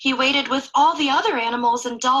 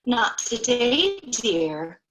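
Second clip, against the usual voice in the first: sighing mother; much slower than usual. Acted. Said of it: "her mother sighed".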